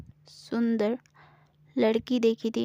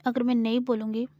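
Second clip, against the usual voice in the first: teasing bargain. Acted. Gauri teases Samira and bargains for her silence.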